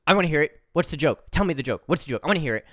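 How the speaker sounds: rapid, insistent imitation of a kid; pestering child. Child begs the storyteller for the joke, imitated pestering. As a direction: keep badgering in short repeated bursts. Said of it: "And she goes".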